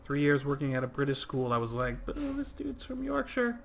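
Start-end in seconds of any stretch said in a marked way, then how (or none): 2.1-3.6 mock Yorkshire accent. Gamer mimicking a Yorkshire friend in Yorkshire accent. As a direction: play a Yorkshire bloke, badly. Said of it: "I'm not gonna do a British accent".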